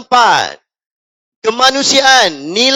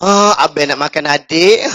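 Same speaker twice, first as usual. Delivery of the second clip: flirty customer reply; 5 semitones lower than usual. Retold or imitated. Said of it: "Awak dengar".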